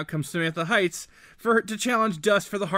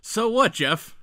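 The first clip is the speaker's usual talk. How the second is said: Caddyshack quote; 4 semitones higher, much slower than usual. Retold or imitated. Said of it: "No, Caddyshack".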